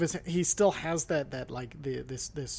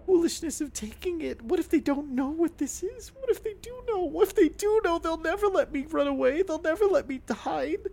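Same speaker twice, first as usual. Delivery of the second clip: rising panic; 11 semitones higher, 5 dB louder than usual. Acted. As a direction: voice climbing higher in panic. Character panics about pursuers.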